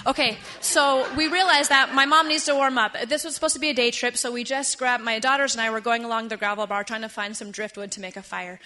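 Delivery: brisk, projected storytelling. Real, not acted. Storyteller hurrying the audience through the rescue, brisk teacher voice. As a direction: pick up the pace like a teacher. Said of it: "Spanish teacher voice and talk faster now".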